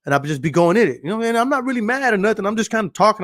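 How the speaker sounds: loud from passion, with no anger in it; talking loud. Shown as a demonstration. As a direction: get going like you're excited on the phone. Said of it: "I'll start talking like this".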